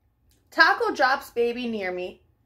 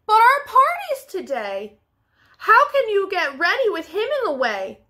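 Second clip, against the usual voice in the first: dismayed cry; 6 semitones higher than usual. Acted.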